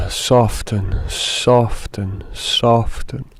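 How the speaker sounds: unhurried meditation guide, falling phrase ends; guided meditation. Acted. Guide invites softening and beings of light, guided meditation. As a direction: let each phrase settle, with long pauses.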